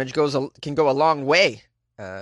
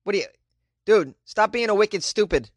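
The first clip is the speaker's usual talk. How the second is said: lightly put-on Boston accent with a mild mock yell; a hint of a Boston accent; 2 semitones higher than usual. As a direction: play a mouthy Boston guy ribbing his buddy. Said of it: "I'm like".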